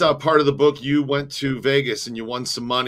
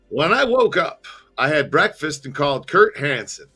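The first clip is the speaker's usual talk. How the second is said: storyteller recounting events step by step; story narration; 4 semitones higher than usual. A narrator's reading. Host reads a book to listeners, story narration. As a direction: read the memoir aloud in measured phrases.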